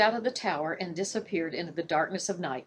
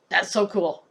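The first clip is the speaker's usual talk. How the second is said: delighted; 4 dB louder than usual. Real, not acted. Reader's delight.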